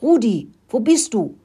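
high urgent mouse call. A narrator's reading. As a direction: call out to a friend in danger. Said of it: "rief Murkel".

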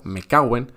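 "me caguen" slurred into one word, mecaguen; run together as one word. Shown as a demonstration. Teacher modelling the native run-together "me caguen". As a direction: say "me caguen" as a single smooth word. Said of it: "de esta manera que te digo".

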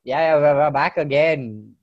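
stuffy nose from allergies; talking through a blocked nose. Real, not acted. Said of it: "I sound weird 'cause my nose is blocked".

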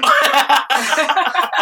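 high burst of laughter. Real, not acted. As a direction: break up laughing hard.

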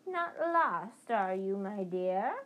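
put-on creepy crone luring a lost boy; old witch voice. Witch accosts lost Harry.

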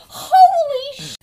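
high, loud, drawn-out mock yell; retold yelp. Imitating a kid falling off the surfboard, high mock yell. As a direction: cry out slowly, cut off mid-word. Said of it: "and he goes".

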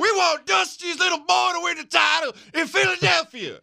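high shouted hick fan; redneck fan voice. Retold or imitated. Chanting fan voice.

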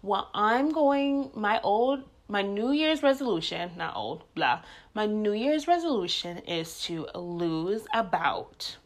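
mocking impression. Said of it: "everybody likes to do is to be like".

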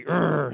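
short growl of pretend anger; mock angry growl. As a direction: growl like you relish being angry. Mock angry growl after verse.

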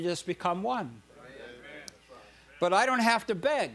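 building sermon fervor; preaching. Real, not acted. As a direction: drive the point home from the pulpit. Preaching rises in force.

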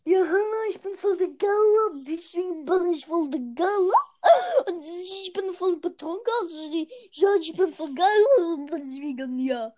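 lightly voiced bragging show-off. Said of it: "wie ein Angeber redet".

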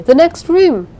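loud, high frantic call; woman calling wildly to the searchers. A narrator's reading. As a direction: shout wildly over the noise. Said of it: "I called wildly".

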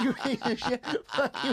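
high-pitched imitated rage with laughter in it; laughing mock tirade; mock furious cursing. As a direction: spit out insults as an enraged friend, hammed up. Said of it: "So furious".

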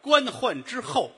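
slow, high, loud declamation; grand corrected repeat. Acted. Comic repeats his partner's correction, grandly drawn out. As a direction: proclaim each word slowly and high.

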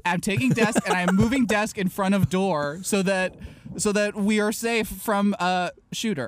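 slow, broken-English tough-guy voice; caveman grown-up. Retold or imitated. Barricading the classroom door, slow broken-English bravado. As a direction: announce it like a primitive hero. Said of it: "I said".

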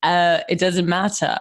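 offhand, attempted British accent. Shown as a demonstration. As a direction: keep up a put-on British accent. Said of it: "Is that British or Australian?".

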